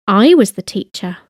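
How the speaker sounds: opening "I" given the emphasis; stress on I. Shown as a demonstration. Language teacher showing past-tense emphasis, stressing "I". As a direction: put the weight on "I". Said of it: "with an emphasis on the I".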